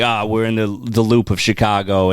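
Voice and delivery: lightly put-on New York accent; accidental New York accent. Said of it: "I don't know why this accent came".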